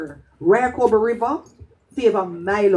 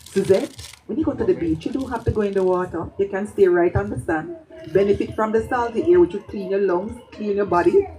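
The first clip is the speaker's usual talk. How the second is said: serious. Retold or imitated. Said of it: "The seriousness in her voice".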